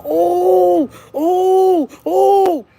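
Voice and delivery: high, loud, drawn-out wails of alarm; distressed wailing. Retold or imitated. Imitating the girl's panicked wails after the call. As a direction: wail each oh like panic has hit. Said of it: "and started going".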